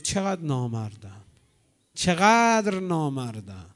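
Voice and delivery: low, slow self-reproach; remorseful lament. Retold or imitated. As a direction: mourn your own shame. Hurr lamenting his own disloyalty. (با پشیمانی و اندوه، آهسته)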